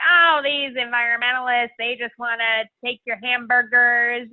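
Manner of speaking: a slightly slowed, vague put-on folksy accent for a grumbling uncle; mimicking her Uncle Joe's complaint in a made-up accent; mock uncle accent. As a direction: lightly voice a grumpy relative in a vague regional accent. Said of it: "I have no idea what accent I'm doing".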